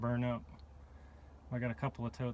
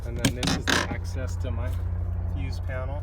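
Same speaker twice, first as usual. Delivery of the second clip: loud, raised voice over rotor noise; yelling over helicopter; 10 dB louder than usual. Real, not acted. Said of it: "Sorry about the helicopter".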